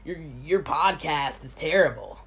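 lightly mocking low complainer voice; mocking rude commenter. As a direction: parody a rude viewer complaining. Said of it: "those rude people and be like".

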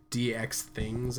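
"D X things" stretched out slowly; drawn-out D X things. Real, not acted. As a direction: linger on each part of "D X things". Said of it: "why I said it like that".

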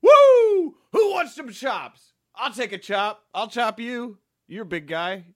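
high, loud wrestler hype yell; hyped-up wrestler. Acted. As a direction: pump the room up like a wrestler. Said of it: "Going into character".

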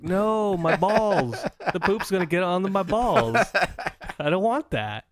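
mock panic. Acted panic about being parasited.

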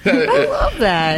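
slow, drawn-out, laughing imitation; impression of a singer. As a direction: stretch it out like the singer. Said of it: "that's how the singer speaks".

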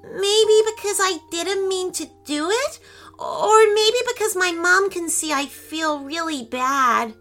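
put-on high, teary, thinking girl; a young girl close to crying; tearful little girl. A narrator's reading. Claire voiced.

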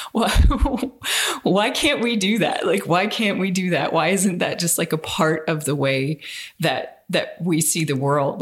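high, laughing, incredulous why; exasperated plea. Retold or imitated. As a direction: plead in disbelief, half laughing. Retold own plea, laughing.

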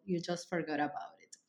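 soft breathy whisper of the slogan; hushed whisper to close the show title; whispered tagline. Acted. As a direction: whisper it like a secret. Podcast tagline whispered after title.

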